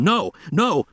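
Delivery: high, urgent shout; running at the flamethrower men, shouting. A narrator's reading. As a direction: cry out to stop the men.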